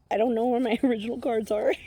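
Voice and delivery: high, loud, fast and laughing. Real, not acted. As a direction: blurt it out while breaking into laughter. Laughs over her lost cards.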